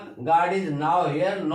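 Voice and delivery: "now" stretched, apart from "here"; slow, spaced "now, here"; pause splitting NOW HERE. Shown as a demonstration. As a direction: say "now here" as two distinct words. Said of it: "nowhere को उसने now here में".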